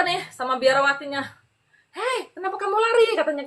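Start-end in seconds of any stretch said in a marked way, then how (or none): 1.9-3.1 high-pitched imitation of a nun calling out; calling after someone. Nun chasing her asks why she runs, high call.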